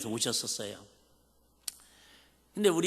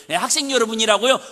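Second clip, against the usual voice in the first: laughing answer; 8 semitones higher, 9 dB louder, faster than usual. Retold or imitated. Students answering for the stutterer.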